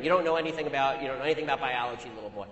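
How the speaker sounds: drops low on little boy, imitating a deep voice; lightly imitated deep taunt; mock deep voice. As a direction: sneer it down low at the end. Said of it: "in a voice at least an octave below my own".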